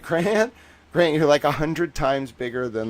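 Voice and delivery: exasperated editor's loud, high yell; imitated yelling. Editor scolds streamer about reach, imitated yelling. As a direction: mimic him yelling, easing off toward the end. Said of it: "he starts yelling".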